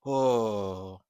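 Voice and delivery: slow, understated nonchalant brush-off; mild calm crash out. Retold or imitated. Mimicking Qatari's calm crash-out tone, slow and mild. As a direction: say it lazily, barely upset. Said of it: "his tone was giving".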